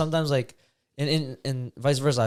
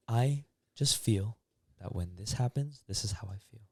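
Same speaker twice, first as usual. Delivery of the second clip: gentle I-statement; 5 dB quieter than usual. Pretend. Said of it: "And then they have the pillow".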